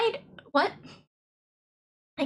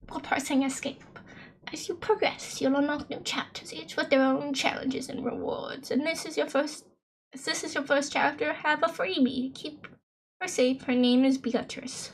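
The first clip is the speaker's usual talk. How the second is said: softer, put-on British narration; British accent; 2 semitones higher, 3 dB quieter than usual. Player reading the chapter guide, soft attempted British accent. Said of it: "sustain, like, a British accent".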